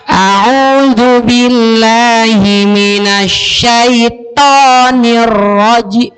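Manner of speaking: very slow recitation, syaithanir with the tongue curled too far back; curled to sound. Retold or imitated. Student reciting to his ustadz, too curled. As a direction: bend the tongue hard on to. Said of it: "Bukan to".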